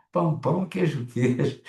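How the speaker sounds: Minas Gerais accent. Shown as a demonstration. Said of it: "O mineirês, né?".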